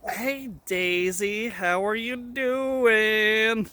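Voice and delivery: slow sing-song pet talk; talking to a dog. Real, not acted. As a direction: coo it to the dog. Greeting the dog Daisy.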